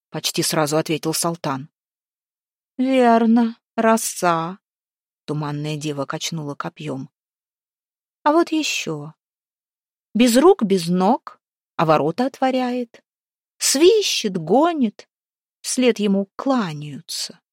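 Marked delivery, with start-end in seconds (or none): 2.8-4.6 echoing ethereal energy being. A narrator's reading. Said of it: "тихим и притом гулким голосом". 8.2-17.4 high hollow spirit voice; echoing ethereal energy being. A narrator's reading. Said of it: "тихим и притом гулким голосом".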